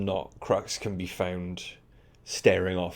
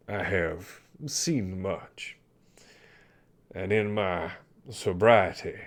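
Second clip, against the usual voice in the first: put-on slow, heavy old sailor voice; an old captain haunted by memories; weary old sea dog; 3 dB louder than usual. GM voices the Commodore.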